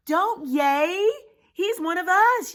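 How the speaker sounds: high, loud scolding; urgent yell. Acted. Pip telling off the cheering crowd, yelling. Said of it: "yelled Pip".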